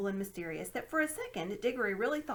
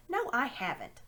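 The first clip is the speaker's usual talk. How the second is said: indignant; 5 semitones higher, 4 dB louder than usual. Acted. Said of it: "said Diggory indignantly".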